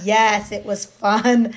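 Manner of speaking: put-on a kid answering mom, slow and pleased; slow agreeing child. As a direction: stretch it out contentedly. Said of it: "I would have been like".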